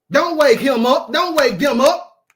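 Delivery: preacher hammering the point; emphatic preaching. Real, not acted. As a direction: drive each warning home.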